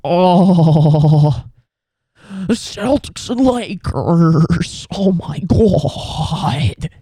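loud, gushing, breathless mock excitement; giddy league execs. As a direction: gush like a fan who just got his dream matchup. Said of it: "They were like".

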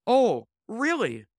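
lightly voiced surprised lady; a little surprised. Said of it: "A little surprised".

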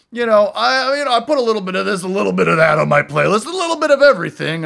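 fast, high, loud rambling; eager cousin. Retold or imitated. Cousin brags to him about his bar playlists, fast and eager. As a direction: rush it like a proud hobbyist.

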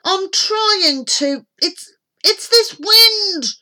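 high, slow, straining yell; strained, loud protest. A narrator's reading. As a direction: yell back while struggling with the oars. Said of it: "yelled Norman".

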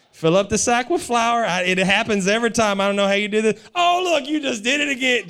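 hammed-up delight at a miracle; mock amazed mom. Mother marveling at her son's flour trick, excited.

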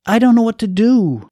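the same words, now falling apart; distraught despair. Acted. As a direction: let it crack with helplessness.

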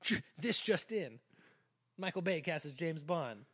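put-on old-timey newsreel announcer; this just in, old radio style; 1950s narrator. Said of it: "Old timey voice".

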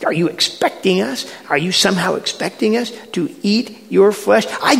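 quick, sputtering disbelief; scandalized follower at a loss for words; incredulous complaint. Acted. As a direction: stammer out a baffled objection. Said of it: "and the complaining".

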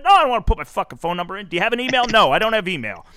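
fast, loud, fed-up no; irritated refusal. Retold or imitated. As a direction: snap back at the clerk, fast. Retold refusal to clerk.

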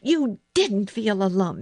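high, forceful contradiction; fierce. A narrator's reading. Girl refutes frightened boy, fierce. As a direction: deny it with angry emphasis. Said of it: "Mary said fiercely".

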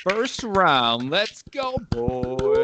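high-pitched rallying call to start a contest; hyped announcer. Pretend. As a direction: kick off the round with rising hype. Host kicks off surprise showdown.

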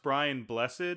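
"Blessed" said as two syllables; "Blessed" with the -ed sounded. Shown as a demonstration. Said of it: "I think it's pronounced".

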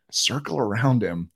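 high, loud, laughing rush of a plan; excited laughing plan to the guide; excited laughing idea. Retold or imitated. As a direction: pitch the crazy idea with glee. Excited plan to flush deer.

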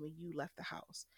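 whispered blaming quote. Retold or imitated. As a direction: hiss the accusation under breath. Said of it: "what it became was".

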